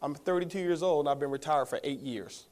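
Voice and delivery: quiet, unhurried retired man; a soft, settled voice, nothing to prove; calm and easy. Retold or imitated. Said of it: "I heard this calm and easy".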